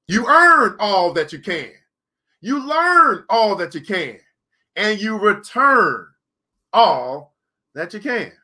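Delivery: slow, drawn out, each line punched; slow emphatic cadence. Real, not acted. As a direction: preach it slowly, weighting each verb. Preacher-style slow cadence list.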